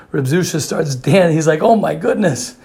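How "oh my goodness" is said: higher-pitched delighted exclamation; imitated wonder, pitched up; retold amazement. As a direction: act out a sudden happy realization. Retold joyful realization while dancing.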